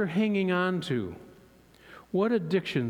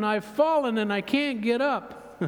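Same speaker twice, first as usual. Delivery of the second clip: higher, hammed-up plea; a man hanging from a rope calls up in a comic cry; mock yell to heaven; 5 semitones higher than usual. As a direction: holler it upward like the old ad. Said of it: "yells to heaven".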